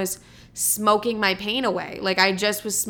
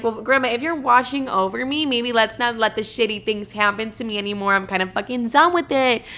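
mock rude; 3 semitones higher than usual. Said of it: "rude about it".

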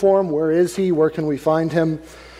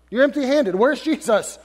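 mildly incredulous, higher-pitched challenge; lightly acted demand, pitched up; demanding question; 5 semitones higher than usual. Rulers questioning officers who came back without their prisoner, demanding.

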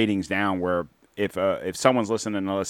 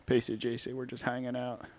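softer, lightly voiced Bill guest; 4 semitones higher, 10 dB quieter than usual. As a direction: play the folksy guest Bill. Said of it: "Ah, Bill".

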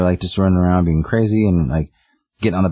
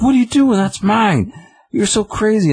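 hammed-up indignant cat squeal; mock outraged old cat. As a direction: play the cat whose box got invaded. Sue finds kitten in her box.

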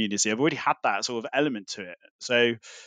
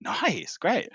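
unimpressed politeness; 11 semitones higher, much slower than usual. Retold or imitated. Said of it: "everyone just kind of was just like".

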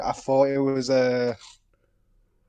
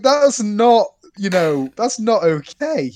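mock offended; 3 semitones higher, 4 dB louder, slower than usual. Mock offended complaint to friend.

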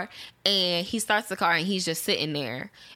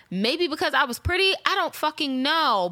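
retold exasperated retort; 7 semitones higher than usual. Retold retort to jealous date.

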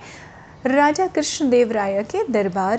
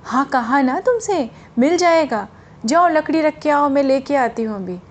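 irritated again. Retold or imitated. Sheelamma losing patience with the seller, mild irritation. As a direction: brush him off, mildly exasperated. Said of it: "शीलम्मा फिर झुंझला पड़ी".

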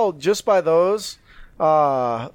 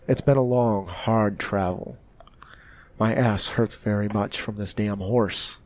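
low, quiet weary traveler; grumbling character voice; 7 semitones lower, 4 dB quieter than usual. Acted. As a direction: air complaints in a low, measured grumble. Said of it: "in one of your characters' voices".

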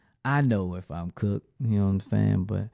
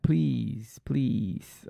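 pleading; 4 semitones higher than usual. Retold or imitated. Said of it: "like, I'm pleading".

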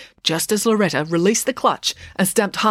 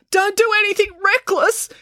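very high, sustained call; 4 dB louder than usual. A narrator's reading. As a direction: call after running children, pitched way up. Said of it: "called Dad".

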